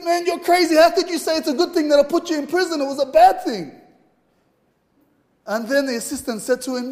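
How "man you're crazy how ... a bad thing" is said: high-pitched, brisk disbelief; mock exasperation, pitch held high; incredulous protest. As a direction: act out a baffled king objecting. Acted protest of the baffled king.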